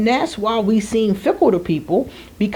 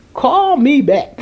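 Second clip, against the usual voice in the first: curt dismissal; 6 semitones higher, 5 dB louder, slower than usual. Retold or imitated. Pet peeve rant at caller.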